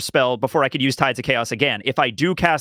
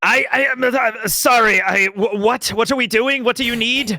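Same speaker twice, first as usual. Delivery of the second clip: higher, stammering confusion; flustered waking; 5 semitones higher than usual. Acted. Just woken Wanda asking what's needed, flustered. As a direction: stumble awake asking what's happening.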